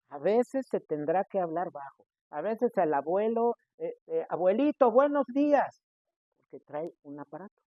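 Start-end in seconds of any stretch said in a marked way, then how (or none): 4.3-5.8 higher, raised voice to grandpa; speaking loudly. Shown as a demonstration. Greeting a grandfather with a hearing aid, loud. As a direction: call out to a hard-of-hearing grandpa. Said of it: "hay que hablarle fuerte".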